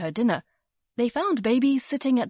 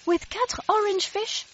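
Percy's voice; 12 semitones higher than usual. A narrator's reading. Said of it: "said Percy".

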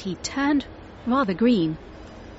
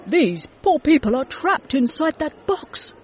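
higher and louder, urgent; alarmed shout; 8 semitones higher, 4 dB louder than usual. A narrator's reading. Mister Logan pitying people inside a television, urgent shout. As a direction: raise the alarm for the trapped people. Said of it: "he shouted".

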